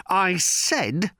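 high, nervous repeat; quavering. A narrator's reading. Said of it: "could not keep the quavering out of his voice".

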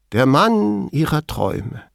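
slow, high, mock-dreamy purr; affected cooing. A narrator's reading. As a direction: coo it affectedly to mock her. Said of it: "affektiert säuselnd fügte er hinzu". (affektiert säuselnd)

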